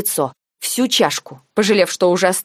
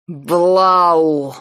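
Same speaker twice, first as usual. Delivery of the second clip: snarling growl, a touch louder; growled name; 4 dB louder than usual. A narrator's reading. Nike lunges at Blau, angry growl. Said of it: "зарычал он".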